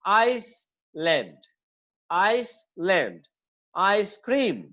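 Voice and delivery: "आइसलैंड" said very slowly, with the weight on आइस; "आइसक्रीम" stressed on आइस, the first word. Shown as a demonstration. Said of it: "first word पे करेंगे".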